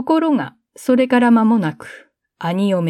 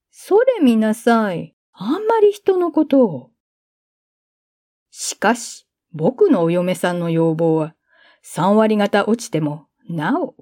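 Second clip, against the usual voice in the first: smug boasting. Acted. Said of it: "得意になっていた".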